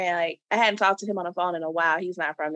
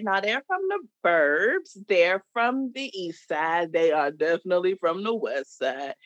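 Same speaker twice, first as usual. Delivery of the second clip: mock firm verdict; 4 semitones lower than usual. Voicing verdict on where people live.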